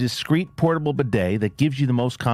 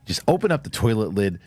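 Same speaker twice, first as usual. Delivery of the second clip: mock infomercial pitch; 5 semitones higher than usual. Mock bidet demo ad voice.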